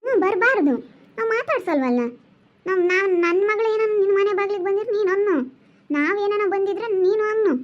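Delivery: high-pitched scolding of an unwelcome guest; high, scolding mother turning away a relative; angry scolding. Acted. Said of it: "ನಿಮ್ಮ ಅಮ್ಮ ಹೆಂಗ್ ಬೈತಾ ಐತೆ".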